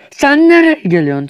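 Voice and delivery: high shouted challenge at an enemy; angry yell. Pretend. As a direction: yell at the player charging in. Yelling at enemy in game.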